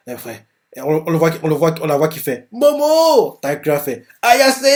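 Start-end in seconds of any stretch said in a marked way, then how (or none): 2.5-3.4 much higher, louder call of the name. Acted. Calling out a name. 4.2-4.6 much higher, louder call of the name. Acted. Calling out a name.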